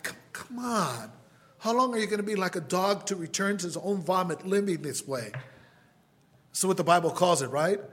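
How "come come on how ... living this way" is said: higher-pitched exasperated appeal; frustrated plea. Acted. Believer to someone who keeps relapsing, frustrated plea. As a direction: plead in mild exasperation. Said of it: "Haven't you been frustrated sometimes with someone?".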